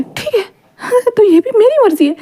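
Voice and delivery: high, broken laugh through tears; crying laugh. A narrator's reading. Wing snapping at Kuran, laughing through tears: high, broken, crying laugh. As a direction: laugh and sob at once, unhinged.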